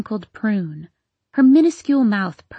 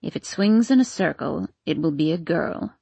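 put-on muttering old woman; 4 semitones lower than usual. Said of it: "muttered the old woman".

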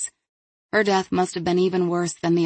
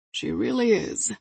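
slow, higher-pitched doting pride; sniffing; 4 semitones higher than usual. A narrator's reading. Dog handler praised about his dog, sniffing with pride. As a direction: draw it out fondly, with a sniff. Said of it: "Victor sniffed".

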